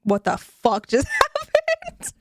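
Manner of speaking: high, whispered shocked laugh; whispered disbelief. Retold or imitated. Recalling the shock of a book twist, whispered and high. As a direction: breathe it out in stunned disbelief. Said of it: "I was like".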